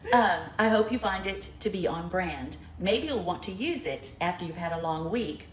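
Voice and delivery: low, measured card-reading voice; reading a note aloud. Real, not acted. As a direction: read the gift poem out to the room. Reads a gift note aloud.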